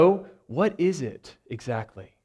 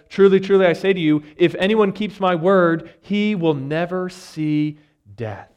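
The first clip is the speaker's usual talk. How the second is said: raised, emphatic voice of Jesus; emphatic scripture reading; 5 semitones higher, 5 dB louder than usual. Acted. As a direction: proclaim it boldly, louder and higher. Jesus' words read with force.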